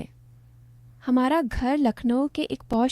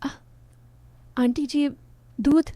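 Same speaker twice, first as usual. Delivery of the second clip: a halting, flustered stammer over each word; 3 semitones higher than usual. Acted. The milkman stammering at auntie's door, flustered. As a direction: trip over the words like a caught young man. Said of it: "वो हकलाया".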